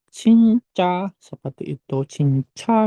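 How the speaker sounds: "cinca" slowly, with a puff of air on the first ch; teacher's stretched-out "cinca", first consonant aspirated; aspirated CH demo. Shown as a demonstration. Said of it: "C H, jadi".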